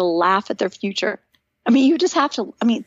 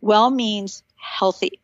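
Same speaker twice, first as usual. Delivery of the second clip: 「Well」をゆっくり強調して; slow weight on well; stress on well; much slower than usual. Shown as a demonstration. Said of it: "I wanna emphasize that word well".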